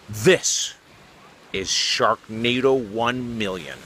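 slow, drawn-out trailer voice; milk the title like a cheesy trailer; mock movie-trailer announce. Reporter answers a young viewer in a slow mock trailer voice.

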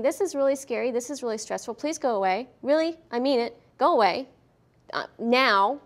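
pleading dog voice, firmer at the end; voicing a scared dog. Instructor voicing the dog asking the child to leave, pleading. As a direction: beg then insist, go away. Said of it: "He's saying".

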